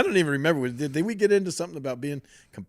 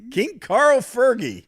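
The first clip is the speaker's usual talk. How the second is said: loud, high, drawn-out hailing of a name; mock-grand announcement; 12 semitones higher, 9 dB louder, much slower than usual. Real, not acted. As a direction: trumpet the name like royalty arriving.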